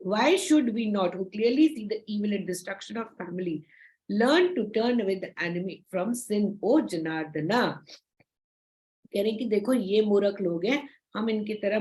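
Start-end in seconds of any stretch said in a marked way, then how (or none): 0.1-7.7 slow, measured scripture recitation; solemn, drawn-out reading of Arjuna's plea; slow verse reading. Acted. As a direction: read the verse out word by word. Reads Gita verse in English.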